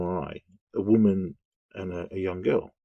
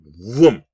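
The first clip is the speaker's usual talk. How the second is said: engine vroom; 9 dB louder than usual. Retold or imitated. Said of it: "police van zoomed through".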